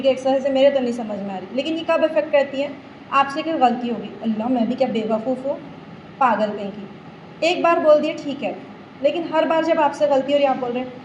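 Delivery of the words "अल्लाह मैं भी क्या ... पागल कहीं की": self-scolding mutter. Retold or imitated. Mimicking harsh self-talk after mistake.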